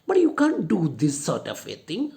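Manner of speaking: proud, arrogant objection; haughty. Shown as a demonstration. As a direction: look down on her as you say it. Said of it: "haughtily, very proudly, very arrogantly".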